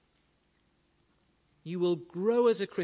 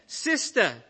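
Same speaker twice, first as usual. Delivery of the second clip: a higher, louder shout into a deaf ear; loud, raised shout to the deaf old lady; shouted question; 8 semitones higher, 7 dB louder than usual. Acted. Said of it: "he shouted in her ear".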